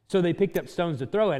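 measured Bible reading voice; solemn gospel reading; scripture reading. Acted. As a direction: read the passage with weight. Reading John 8 aloud.

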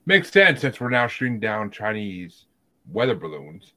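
dry sarcasm after an emphatic start; sarcastic. Real, not acted. Co-host pretending to accept the balloon story, sarcastically. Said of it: "there was sarcasm in my voice".

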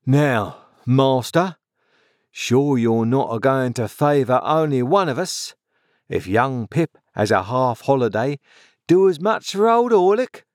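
rough rustic workman pleading his case; aggrieved journeyman. Acted. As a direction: grumble at the boss, pitched a little high. Voices Orlick, aggrieved journeyman.

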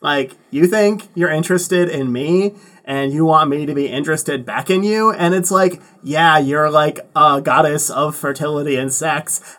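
lightly played Valley Girl. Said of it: "Was that the voice of Gilgamesh?".

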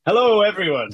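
loud, high mock call to a crowd; playful hammed-up holler; shouted greeting. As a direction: yell it like a cheery town greeting. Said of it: "He's like".

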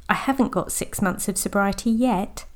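a hopeful lift on yet. Shown as a demonstration. Coach showing how yet changes the line. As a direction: let yet sound full of hope. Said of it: "Sounds hopeful".

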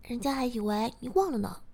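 high, loud burst of surprise; pleasantly surprised girlfriend, voice leaping up then easing; delighted surprise. Acted. Girlfriend answering her master, delighted and surprised.

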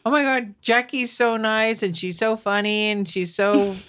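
high-pitched admiring gush; gushing praise. Retold or imitated. Mom quotes people raving about her daughter, gushing. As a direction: gush like an impressed acquaintance.

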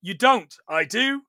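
playful escalating contradiction; mock bickering. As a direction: bat it back like a playground row. Acted back-and-forth argument.

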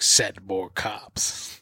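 slow, groaning zombie moan. Retold or imitated. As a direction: drag the words out like a zombie. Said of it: "the zombies are just like".

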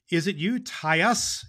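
slow, lightly voiced shy girl; a small timid question at the door; shy little girl. Little Mary at Claus's door, asking shyly. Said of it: "she asked shyly".

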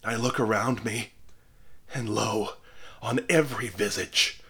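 dying minister denouncing the onlookers; impassioned cry. A narrator's reading. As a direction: preach his last accusation with full force. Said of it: "cried he".

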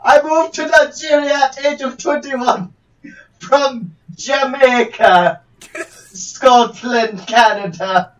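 hammy fake Nigerian accent; a put-on Nigerian lawyer voice. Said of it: "this is not a Nigerian accent".

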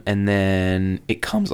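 voice breaking. Real, not acted. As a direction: voice cracks on comes. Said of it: "brutal voice break".

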